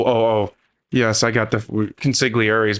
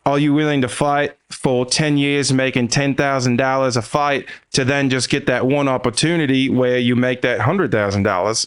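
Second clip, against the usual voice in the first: put-on Aussie accent; 2 semitones higher than usual. Friend Rob quoted to a fighter, light Aussie accent. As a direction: imitate a mate's Aussie accent. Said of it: "but in his Aussie accent".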